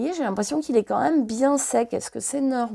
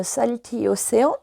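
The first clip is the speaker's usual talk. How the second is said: English color names in a French accent; halting English with a French accent; much slower than usual. Real, not acted. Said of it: "foutez-vous de moi et de mon accent anglais".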